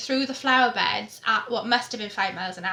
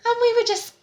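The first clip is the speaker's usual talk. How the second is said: laughing; 12 semitones higher, 5 dB louder, faster than usual. Real, not acted. Laughing recalling Ben.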